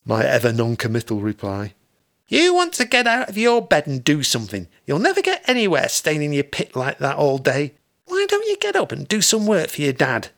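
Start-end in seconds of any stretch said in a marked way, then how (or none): 2.3-10.3 nagging mother. Acted.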